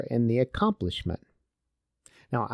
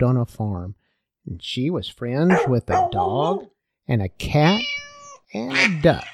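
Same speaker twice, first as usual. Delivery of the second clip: put-on reading a children's folk tale aloud, with little voices for the animals; story narration. Preacher reading the little red hen tale to his congregation, storytelling voice. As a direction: tell it like a bedtime story, lively and clear.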